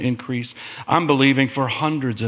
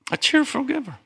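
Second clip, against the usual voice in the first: emphatic call; 13 semitones higher, faster than usual. Real, not acted. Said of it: "for God loves a what?".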